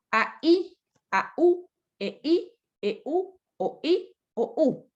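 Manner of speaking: each pair like "A, I" as two beats, second vowel stressed; vowels kept apart. Shown as a demonstration. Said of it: "Allá como la pronuncié".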